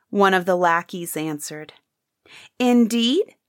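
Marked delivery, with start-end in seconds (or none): 2.6-3.4 louder defiant cry. Acted. Prince defying the lackeys while pushing past, loud cry. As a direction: push back hard, daring them to stop you. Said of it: "cried the other prince".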